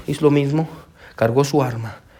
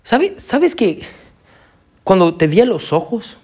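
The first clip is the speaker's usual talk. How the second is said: gentle pastor voice; 3 semitones higher, slower than usual. Retold or imitated. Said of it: "el pastor le dijo lo siguiente". (pastor amable, voz más aguda y lenta)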